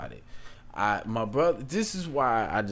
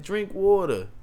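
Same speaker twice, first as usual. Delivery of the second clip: imitating the brother, higher and firm; firm brother command; 9 semitones higher, 3 dB louder than usual. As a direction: bark it like a big brother laying down the law. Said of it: "That's how he said it".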